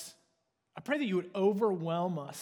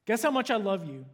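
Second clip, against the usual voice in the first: lightly voiced little hare, a touch higher and louder; little hare asking; 4 semitones higher, 4 dB louder than usual. Little hare asking the big hare at bedtime, lightly voiced and eager. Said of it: "he said".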